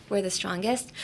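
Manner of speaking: We're the strongest said evenly and softly; no emphasis. Shown as a demonstration. Host copies how Geto says it, no emphasis on any word. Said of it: "without any emphasis on anything".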